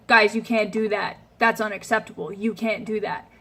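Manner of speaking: flat, firm telling-off with falling ends; strict reprimand to guests; stern. Shown as a demonstration. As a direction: scold without a smile. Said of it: "this really stern look on your face".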